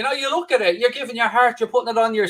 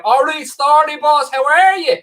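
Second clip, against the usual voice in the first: slow, higher Dublin accent greeting; 8 semitones higher, 4 dB louder than usual. Shown as a demonstration. Mocking a real Dublin accent for the chat, Dublin accent. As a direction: put on a broad Dublin brogue, drawn out. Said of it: "from Dublin".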